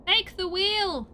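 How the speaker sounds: loud, high stretched shout; high loud slow yell; hammed battle cry. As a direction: roar it like a war cry.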